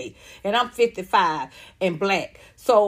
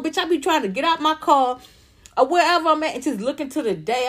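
ordinary talk

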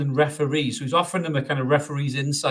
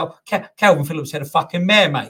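a self-confessed bad Cockney accent for a West Ham fan; rough, amateur Cockney impression of a football fan; crap Cockney accent; 3 semitones higher, 6 dB louder than usual. Podcaster imitating a West Ham fan interviewed outside the ground, crap Cockney accent. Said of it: "apologies for the crap Cockney accent".

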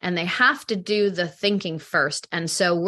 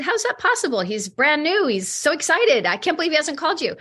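retold disbelief; 7 semitones higher than usual. Retelling her shocked reply.

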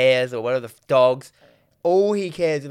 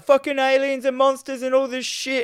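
mock ghetto accent; 11 semitones higher than usual. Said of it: "they're like".

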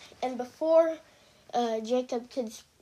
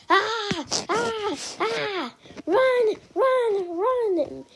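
high, louder frightened screams of run; panicked yelling; 9 semitones higher, 3 dB louder, much slower than usual. A narrator's reading. Harry flees sword-wielding warriors, yelling in panic. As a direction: scream while fleeing swords. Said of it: "Harry yelled".

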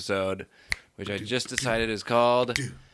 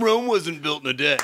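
laughing; 5 semitones higher than usual. Real, not acted. Laughing through the mock.

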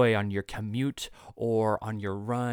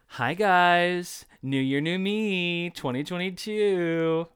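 upbeat intro voice; 6 semitones higher, 4 dB louder, much slower than usual. Shown as a demonstration. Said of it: "I hate that".

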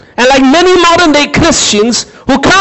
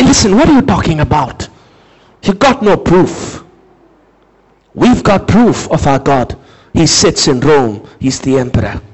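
lower, dismissive Roman voice dropping away; scoffing Roman; 11 semitones lower than usual. Retold or imitated. Preacher voicing a Roman mocking Jewish claims, low and dismissive. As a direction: brush them off like a bored Roman.

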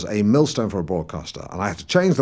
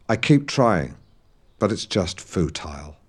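retold tearful defeat; 5 semitones lower than usual. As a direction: give up, mildly weepy, imitating him. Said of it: "he broke down and wept".

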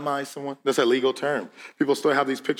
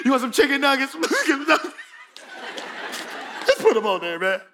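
cafeteria server voice; 11 semitones higher, faster than usual. Retold or imitated. Lunch server offering food.

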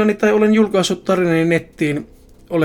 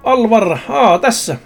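found it; 4 semitones higher, 3 dB louder, slower than usual. Acted. Finding the name in the book.

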